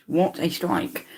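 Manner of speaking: slow hushed replay of the praise; quiet slow echo. Real, not acted. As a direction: repeat the line under your breath, admiring. Goal replay, said once then echoed.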